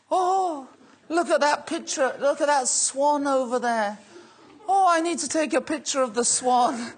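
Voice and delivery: imitating a friend gushing over every sight; mock wonder. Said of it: "Ashley's like".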